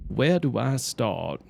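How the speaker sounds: slow, lightly southern character voice; southern drawl. Acted. Streamer getting back into the character's voice, slow southern drawl. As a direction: stretch it out in a mild southern drawl. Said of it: "the kind of southern draw I usually".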